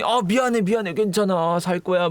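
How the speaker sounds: high, hurried reassurance; mock panicked apology. Cop apologizing to the person he shot, flustered. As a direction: imitate a flustered shooter saying sorry.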